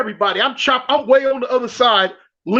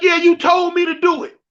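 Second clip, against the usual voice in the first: retold shout; 6 semitones higher than usual. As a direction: fire it back at the guard. Arguing back at the guard.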